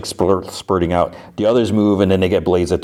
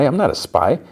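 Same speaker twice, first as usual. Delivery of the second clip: higher-pitched protest; mock-indignant, pitched up; retold baffled denial; 8 semitones higher than usual. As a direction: act out an accused man's disbelief. Man denies being a spy.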